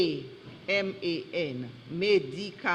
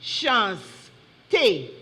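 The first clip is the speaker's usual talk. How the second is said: careful repeat. Real, not acted. Wait, repeat the word.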